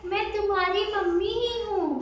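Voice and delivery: high, thin wolf pretending to be mother; thinned-out voice. A narrator's reading. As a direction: coax in a high mummy voice. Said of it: "अपनी आवाज पतली कर दी". (पतली, ऊँची बनावटी आवाज)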